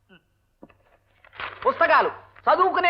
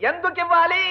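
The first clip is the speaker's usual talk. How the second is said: exasperated demand; 4 semitones higher than usual. Acted. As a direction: demand it in a raised pitch. Exasperated demand to deaf wife. (విసుగ్గా గొంతు పెంచి)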